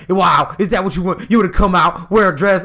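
imitating an offended friend, a touch indignant; mildly indignant mimicry of a friend; mock upset. Mimicking a friend upset at being teased, mock offended. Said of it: "he, like, gets really upset".

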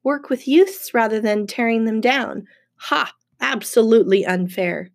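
mild sulky grievance; pouting child. Acted. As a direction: pout through it like a little kid. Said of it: "pouting like a little kid".

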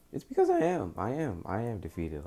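helpless. Real, not acted. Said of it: "I sound like I'm defeated".

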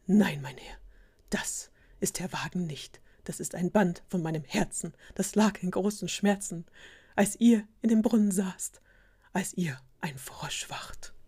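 hammed-up solemn confession; very dramatic. A narrator's reading. Loyal servant confesses his heartache to the prince, dramatically. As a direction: declaim it in weighty, separated phrases, sinking away at the end. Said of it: "natürlich hab ich sehr viel dramatischer gelesen".

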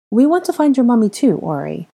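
put-on patient explanation to a child, high at first; slowly explaining. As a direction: spell it out kindly. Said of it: "Ginny explained slowly".

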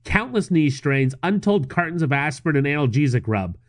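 deliberate article-reading voice; news read. Acted. Host reading a marathon article to co-host, news-read delivery. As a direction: read it out, punching the figures. Reads newspaper article aloud.

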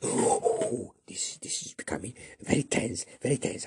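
whispered, hushed; tense whisper. Acted. Characters whispering after hearing a noise. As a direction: breathe it in suspense.

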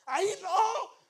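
high, loud yell over headphones; oblivious gamer yelling; re-enacted shouting. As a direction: shout it out to gaming buddies, half laughing. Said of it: "les estaba gritando".

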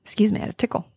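a whisper after a cough; hoarse after cough. Real, not acted. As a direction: clear a tickle in the throat and murmur.

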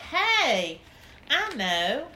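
high, loud eager hey; excited idea. Acted. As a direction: burst out with the idea. Narrator gets a great idea.

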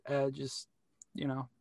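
tipsy. Real, not acted. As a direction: talk like you've had three drinks. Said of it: "I'm a little tipsy".

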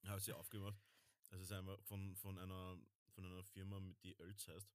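eating while talking; chewing while talking. Real, not acted. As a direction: mouth full. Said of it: "ich esse grad eine".

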